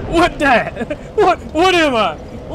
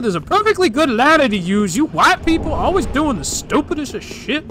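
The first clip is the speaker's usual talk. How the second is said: talking black. Pretend. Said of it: "me talking black".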